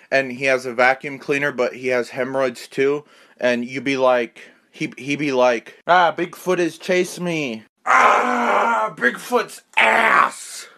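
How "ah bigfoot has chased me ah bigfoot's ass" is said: panicked cry. Acted. Skit, chased by Bigfoot.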